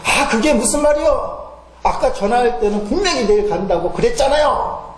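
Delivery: high-pitched, annoyed mock complaint; retelling a woman snapping at the clerk, irritated; irritated outburst, retold. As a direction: act out a customer's peevish protest. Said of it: "화가 났든지 큰 소리로".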